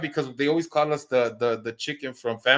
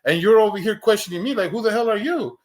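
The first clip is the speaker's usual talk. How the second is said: retold challenge; 6 semitones higher, 4 dB louder than usual. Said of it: "It's like".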